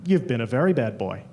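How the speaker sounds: deep mock seductive answer; sultry reply. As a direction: growl it back as a flirty partner. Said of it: "the guy would look back at me and say".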